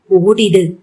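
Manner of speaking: ஓடிடு pushed out weakly by a wounded man; a dying gasp of ஓடிடு as he collapses; lightly acted faint ஓடிடு before fainting; fading, injured. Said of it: "மயங்கி ஒத்தன வதனாவின் காலடியில் சரிந்தான்".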